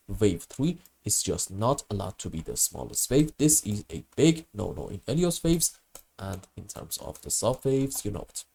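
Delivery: hoarse from a bad cold; talking through a head cold; sick cold voice. Real, not acted. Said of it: "apologize for my terrible voice".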